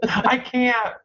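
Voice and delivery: high, helpless laughing voice. Real, not acted. Host gives up reading the comment, laughing. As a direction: squeeze it out through laughter.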